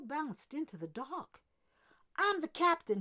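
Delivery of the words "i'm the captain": loud, higher bark of command. A narrator's reading. Captain Jordan asserting authority over his deckhand, loud bark. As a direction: bark it like a furious skipper. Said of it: "he barked".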